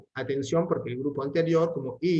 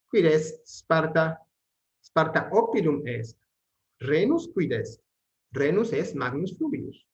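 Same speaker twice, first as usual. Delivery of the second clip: Latin question-and-answer reading; 2 semitones higher, 4 dB louder, slower than usual. Acted. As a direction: read the questions out brightly, then answer calmly.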